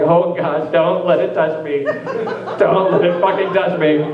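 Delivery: mock disgust. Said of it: "the whole time I'm just like".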